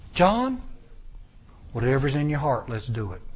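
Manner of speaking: soft, low agreement; hushed devotion; quiet loyal reply. Retold or imitated. Armor bearer quietly agreeing with Jonathan. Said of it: "armor bearer said".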